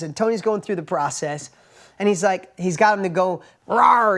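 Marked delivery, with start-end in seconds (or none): 3.7-4.2 bolder roar, louder; louder rawr. Retold or imitated. Shy guy finding his voice, roaring louder. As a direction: let the roar grow bolder. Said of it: "he's getting a little louder".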